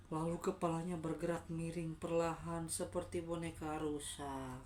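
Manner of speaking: measured, eerie storytelling; suspenseful ghost-story telling; spooky story narration. A narrator's reading. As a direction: let the creature's description creep along.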